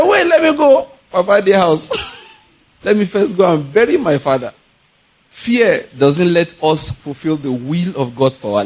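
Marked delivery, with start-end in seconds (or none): 0.0-4.5 mock excuse. Follower making excuses to Jesus.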